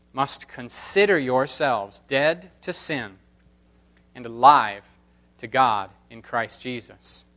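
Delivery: measured, solemn reading of scripture. Acted. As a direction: read the passage with reverent weight. Formal scripture reading aloud.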